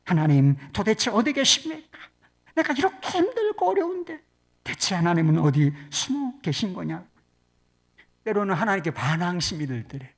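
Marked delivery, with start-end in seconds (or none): 0.0-7.1 retold anguished complaint to God; mildly acted lament, rising in pitch; lamenting prayer. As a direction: demand to know where God is hiding. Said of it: "탄식과 눈물로 기도했대요".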